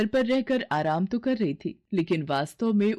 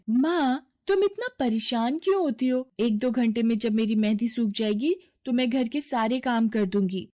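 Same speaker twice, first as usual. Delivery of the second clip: put-on a lightly raised girlish voice, teasing her mother; coaxing daughter; 4 semitones higher than usual. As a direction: talk mom round, sweet and easy. (माँ को मनाती हल्की ऊँची बेटी की आवाज़)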